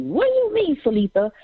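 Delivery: high-pitched pretend bewilderment; puzzled listener. Host voicing a listener asking her, high and puzzled. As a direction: ask it like a confused fan.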